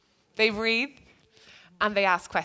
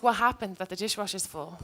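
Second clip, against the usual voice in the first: curious, gentle ask. Shown as a demonstration. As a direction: ask it kindly, with real curiosity.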